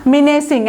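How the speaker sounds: মিনেসিং as "mi-ne-sing"; correct pronunciation. Shown as a demonstration. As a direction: say মিনেসিং just as spelt, "mi" first. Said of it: "এটা আবার উচ্চারণ মিনেসিং".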